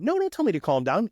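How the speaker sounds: imitating someone who won't be calmed; mock angry retort. An angry witness snapping at the investigator, in mock anger. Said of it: "Maybe it's angry".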